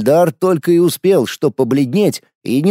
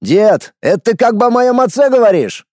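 angry challenge; 8 semitones higher, 4 dB louder than usual. A narrator's reading. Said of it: "гневно сверкнул глазами граф".

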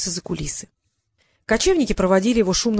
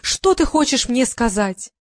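pathetic princess; 4 semitones higher than usual. Acted. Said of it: "патетически восклицать".

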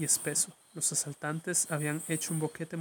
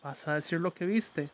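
mother's shout; 2 semitones higher, 4 dB louder than usual. Acted. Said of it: "le gritó su madre".

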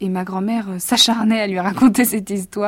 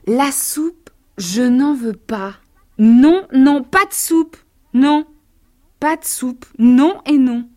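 put-on louder stubborn child shouting no; child crying out; 4 semitones higher, 9 dB louder, slower than usual. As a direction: yell the refusal at the table. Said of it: "il cria". (enfant qui crie son refus)

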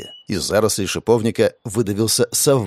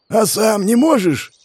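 hoarse call; 10 semitones higher, slower than usual. Acted. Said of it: "хриплым голосом".

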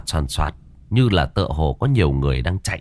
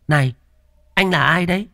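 much higher suspicious question; high woman's voice; 10 semitones higher than usual. Acted. Farm woman questions the strange man, high voice. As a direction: challenge the stranger sharply.

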